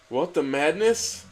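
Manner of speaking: cartoon cat outraged; mock shock. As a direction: act stunned, stretch it out. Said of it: "bombasted Garfield with appealing shock".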